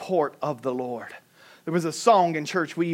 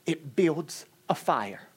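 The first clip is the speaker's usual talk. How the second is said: tearful; 3 semitones lower, 6 dB quieter, slower than usual. Retold or imitated. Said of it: "In tears and crying".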